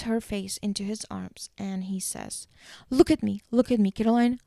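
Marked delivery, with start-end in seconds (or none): 2.9-4.4 raised, louder, insistent command; urgent insistence. Retold or imitated. Stefan steadying a panicking Caroline, insistent acted command. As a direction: grab their attention, acted urgency.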